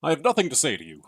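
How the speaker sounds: put-on very old man. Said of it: "That's a very old man".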